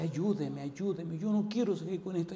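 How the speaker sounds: mock screamed plea. Retelling the woman begging the preacher for help, mock screamed plea. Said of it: "ella me gritaba y me decía".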